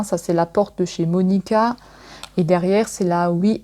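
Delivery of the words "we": halting English in a French accent; hesitant French-accented attempt at English. Real, not acted. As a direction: stumble through the English title with a French accent. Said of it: "mon anglais, il est super".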